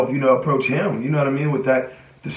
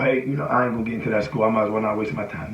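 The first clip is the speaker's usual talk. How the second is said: low, quiet defeated mutter; voicing discouraged inner doubt, soft and low; negative self-talk; 4 semitones lower, 4 dB quieter, faster than usual. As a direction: grumble quickly to yourself, giving up. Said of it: "When I get into that moment of doubt".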